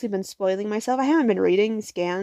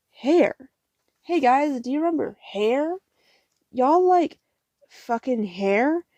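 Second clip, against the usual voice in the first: higher, pushy mock sales pitch; hammed-up eager plug, pitch leaping up; mock hyping; 4 semitones higher, slower than usual. Acting out the book hammering on hair.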